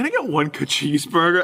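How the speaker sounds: nearly laughing. Retelling ordering a cheeseburger at a restaurant: retelling almost laughing while ordering. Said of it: "And I almost fucking laughed".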